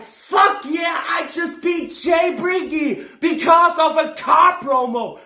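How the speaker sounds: high, shouted mock brag; mocking the rival's victory cheer; mock gloating cheer. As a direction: shout it like a smug winner, hammed-up. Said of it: "and be like".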